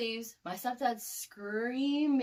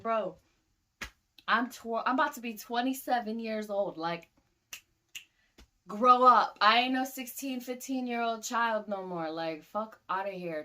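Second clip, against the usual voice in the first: talking back; 3 semitones higher, 6 dB louder than usual. Retold or imitated. Arguing back at stepdad.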